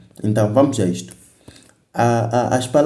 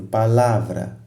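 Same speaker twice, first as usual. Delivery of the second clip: "palavra" with the force on LA; stress on the middle syllable; slower than usual. Shown as a demonstration. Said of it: "É na sílaba lá".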